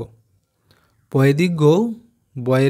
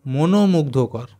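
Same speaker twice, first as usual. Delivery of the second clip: staccato; much slower than usual. Shown as a demonstration. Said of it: "কেটে কেটে উচ্চারণ করবে".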